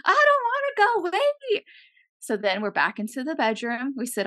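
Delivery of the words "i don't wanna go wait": high-pitched comic plea; mock panicked protest. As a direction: squeal the protest as if being pulled away. Acted protest while being rewound.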